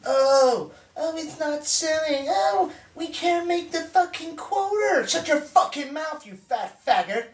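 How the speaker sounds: jeer, then snap out the insult; scornful high-pitched outburst; angry mocking rant. Angry tirade at a phone caller.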